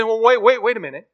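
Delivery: high, loud startled wait; alarmed protest. Retold or imitated. Ghost man stops the angel in loud alarm. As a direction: stop him in sudden alarm. Man balks at killing lizard.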